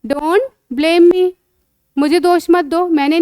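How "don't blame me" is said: slow, clear, drawn-out English model phrase; slow teaching model. Shown as a demonstration. Teacher slowly modelling phrase for a child. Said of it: "तो आप क्या बोलोगे?".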